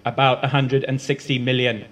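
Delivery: flat monotone voice. Acted. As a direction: read the number in monotone. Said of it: "same monotone she always uses".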